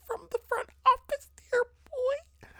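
very high, squeaky voice; squeaky mock lament. Mock lament over the investment.

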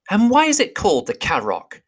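eager small hobbit asking; Bilbo voice. Acted. Bilbo asks Gandalf.

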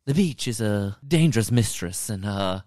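a touch of brooding movie villain; mock menace, understated; villainous. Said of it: "gets all villainous".

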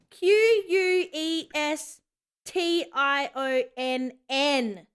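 slow letter by letter; spelling it out. Shown as a demonstration. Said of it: "reading out the right spelling".

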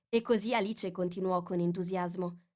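ordinary delivery

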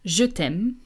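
je t'aime said slowly with a nasal aime; French je t'aime. Shown as a demonstration. Teacher modelling je t'aime for learners. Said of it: "learn how to say".

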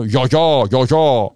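loud, broad dialect "Ya, ya" sounds; Samian "ya". Shown as a demonstration. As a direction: hit "Ya, ya" as heavy Samian. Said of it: "It's "ah," not "ah".

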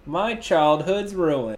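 slow, soft mock despair. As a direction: lament it, hammed-up. Mock lament, slow quiet.

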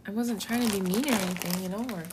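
a touch of hurt shock, backpedalling; mildly taken aback, explaining yourself haltingly; Peter. Retold or imitated. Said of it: "Peter was a little bit shocked".

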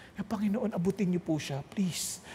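hushed, low pleading; acted prayer. Praying God will reach the hurtful friend, quiet plea. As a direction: plead softly with the Lord. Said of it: "nagpray na ako".

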